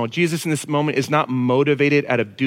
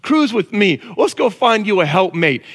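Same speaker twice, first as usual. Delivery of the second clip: God; 4 semitones higher, 3 dB louder than usual. Retold or imitated. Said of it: "It's God who says".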